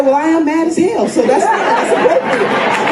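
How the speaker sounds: high and punchy, owning the anger; mad as hell. Retold or imitated. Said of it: "I said".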